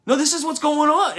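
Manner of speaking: defensive, digging in hard; retold flare of anger, insisting; getting angry. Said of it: "you just start getting more angry".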